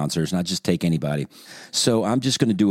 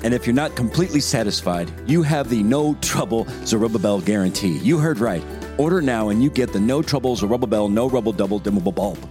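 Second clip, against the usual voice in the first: upbeat radio ad voice; ad read. Shown as a demonstration. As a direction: sell it like a commercial announcer. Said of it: "I'm just gonna do a dry read here".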